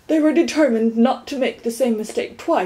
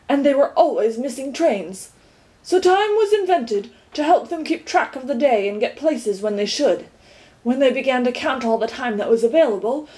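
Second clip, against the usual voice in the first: earnest lecture; 3 semitones higher than usual. Acted. Tock lecturing about time.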